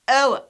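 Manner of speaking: "O" loud, as "oh-uh"; triphthong pronunciation. Shown as a demonstration. Teacher showing "you see here", "O" as "oh-uh". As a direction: glide "O" down into a weak schwa. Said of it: "We pronounce it as".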